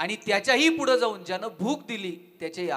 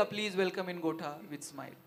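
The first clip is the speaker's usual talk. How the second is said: mock buffalo greeting; 2 semitones lower, 5 dB quieter, much slower than usual.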